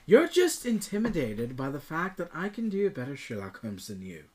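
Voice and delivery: mock-British detective boast; put-on British. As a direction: play a haughty British Sherlock Holmes. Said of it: "If I was going to go British, I'd do this".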